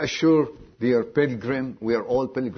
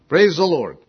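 loud, raised-pitch exclamation; shouted praise; 6 semitones higher, 8 dB louder than usual. Retold or imitated. Retelling a believer's outburst while reading, shouted praise. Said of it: "He was shouting".

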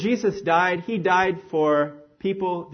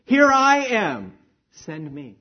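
joyful; 3 dB louder, slower than usual. Retold or imitated. Jesus answering the Father's call, with joy. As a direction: sing it out with joy, then let it settle. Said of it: "he did it with joy".

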